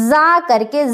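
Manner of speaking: زا with a little whistle; whistling ز. Shown as a demonstration. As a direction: hiss زا like a whistle. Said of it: "سیٹی کی آواز آپ کی نکلے". (سیٹی والی زا)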